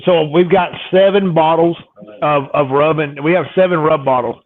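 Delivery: talking around a piece of ice; words slurred by ice in mouth. Real, not acted. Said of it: "sorry, a piece of ice in my mouth".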